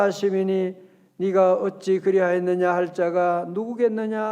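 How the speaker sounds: even, chanting congregational recitation; deliberate Bible reading aloud; unhurried scripture reading. Shown as a demonstration. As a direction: lead everyone through the verse in measured phrases. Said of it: "한번 천천히 한번 읽어봐요".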